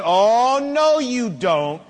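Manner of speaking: put-on firm, rising stern warning in a child's face; a father confronting his child, stern and emphatic. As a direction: lay down the law, each "you don't" clipped and final. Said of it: "got in their face and said".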